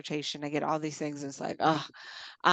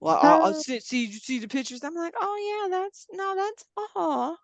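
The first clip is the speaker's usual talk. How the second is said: fake sympathy; 9 semitones higher than usual. Pretending to care about his pictures, high and hollow. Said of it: "I'm just like".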